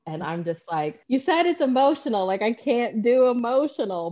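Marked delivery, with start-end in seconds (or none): 1.1-4.1 mock protest. Acted protest at an emotional book.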